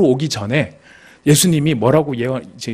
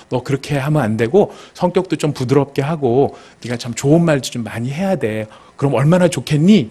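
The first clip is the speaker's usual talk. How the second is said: feigned gentle advice. Acted. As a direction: pretend you advised them kindly. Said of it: "굉장히 자기는 인격적이고 부드럽게 잘 이야기한 것처럼 합니다". (인격적이고 부드러운 척 타이르듯)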